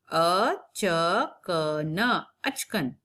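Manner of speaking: अचकन split slowly, syllable by syllable. Shown as a demonstration. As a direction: spell out अचकन slowly for a class. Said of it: "अमात्रिक शब्दों का अभ्यास". (अक्षर अलग करके धीरे बोलना)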